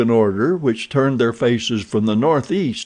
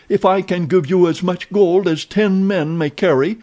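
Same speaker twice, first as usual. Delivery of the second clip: higher, eager pleading; pleading offer; 8 semitones higher than usual. A narrator's reading. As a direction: tempt him while begging. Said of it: "he pleaded".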